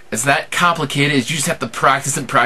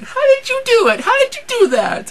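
high squawky cartoon duck; Donald Duck voice. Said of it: "my Donald Duck impression".

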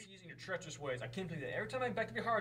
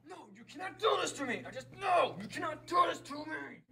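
desperate pleading shout; 5 semitones higher than usual. Acted. Pleading with computer.

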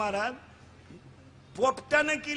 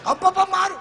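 much higher and louder pleading; high pleading boy; 9 semitones higher, 7 dB louder than usual. Retold or imitated. Son begging his father, high and loud. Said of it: "boy pleads".

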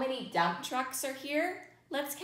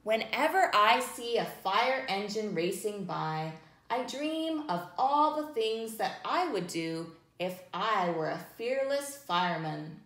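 put-on reading to children. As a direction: read gently to little listeners. Reading picture book to children.

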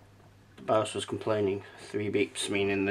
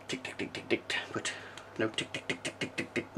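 imitated ticking; 3 semitones lower, 8 dB quieter than usual. Shown as a demonstration. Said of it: "that's when it".

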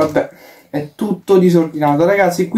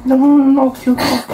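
panicked shouting; 8 semitones higher than usual. Real, not acted. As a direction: yell in alarm as you almost fall. Panic during the floor game.

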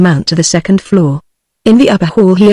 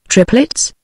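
appalled question; 5 semitones higher than usual. A narrator's reading. Appalled father questioning the family doctor, aghast. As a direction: ask it in hushed, rising disbelief. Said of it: "demanded Mister Button appalled".

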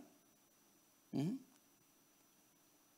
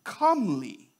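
low, softened delivery; calm; 6 semitones lower than usual. Shown as a demonstration. Preacher showing parents how to say it, calm. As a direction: settle the word down gently. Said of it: "you can say it calmly".

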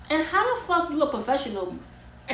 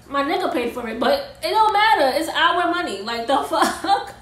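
louder, higher heated protest; indignant outburst; 4 semitones higher, 5 dB louder than usual. Real, not acted. Ranting about the stylist and the money, indignant outburst. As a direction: blow up over the money. Angry rant about paid hair.

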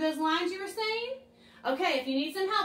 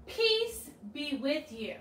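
slow, gentle line; much slower than usual. Shown as a demonstration. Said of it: "So say that with me".

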